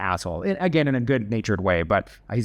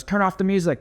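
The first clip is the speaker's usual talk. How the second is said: higher-pitched imitation of a bully giving orders; mock command to the room, pitched up; announcing to team; 8 semitones higher than usual. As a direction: call out an order, without shouting.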